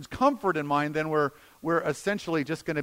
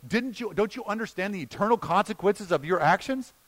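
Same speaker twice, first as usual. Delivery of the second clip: acted rebuke; 3 semitones lower than usual. Imagined rebuke of Peter by Jesus.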